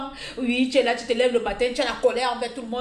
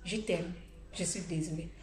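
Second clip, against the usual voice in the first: tender; 5 semitones lower, 12 dB quieter than usual. Shown as a demonstration. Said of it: "n'oublie pas toujours de dire".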